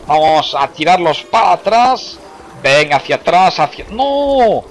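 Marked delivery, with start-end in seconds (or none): 3.9-4.6 dismayed cry. Real, not acted. Mistake ruins his defences.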